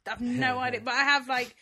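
ordinary talk

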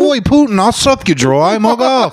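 put-on high British accent sliding into Australian; botched British accent. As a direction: ham up a bad, high-pitched British accent. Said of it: "Why are you doing an Australian accent?".

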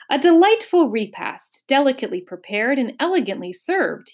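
lightly pompous announcement; grand praise after a meal; announcing. A narrator's reading. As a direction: announce it to the room at large. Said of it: "he announced to no one".

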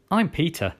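blurted. A narrator's reading. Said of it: "I blurted out".

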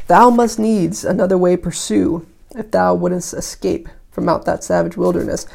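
put-on measured recitation of old verse; declaimed lightly, pausing between phrases; verse reading. A narrator's reading. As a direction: read the poem out with firm phrase openings. Reads the poem aloud.

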